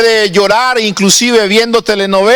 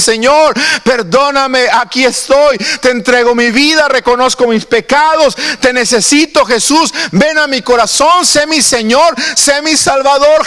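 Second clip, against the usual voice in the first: pleading penitent prayer; 4 semitones higher than usual. Retold or imitated. Voicing a repentant sinner's prayer.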